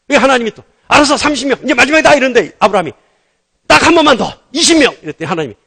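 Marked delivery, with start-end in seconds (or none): 0.9-2.1 high, mock-exasperated agreement; exasperated concession. Preacher acting God granting one last request, exasperated. 3.7-4.9 high, loud mock begging; insistent pleading. Preacher acting Abraham bargaining with God, insistent plea. Abraham begs one more time.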